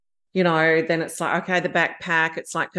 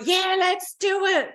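put-on girlfriend quoted in a much higher, slower voice; imitating girlfriend; 14 semitones higher, slower than usual. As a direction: pitch her eager yes up high and draw it out.

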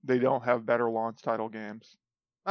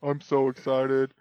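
slow deadpan monotone; emotionless robot; slower than usual. Pretend. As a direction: drag it out with no excitement. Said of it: "I sound monotone all the time".

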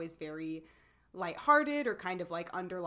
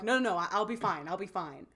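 mock holding it together; faster than usual. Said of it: "you feel it coming".

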